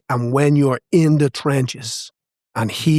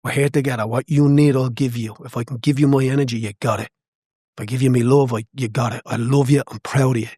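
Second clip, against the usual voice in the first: tender encouragement. Retold or imitated. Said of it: "look him in the eye and say".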